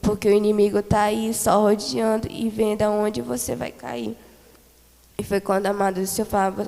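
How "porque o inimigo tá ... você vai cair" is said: urgent, louder warning to the church; fervent loud admonition; loud preaching warning. Retold or imitated. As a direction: proclaim it like a warning from the pulpit. Preacher relays the Lord's warning.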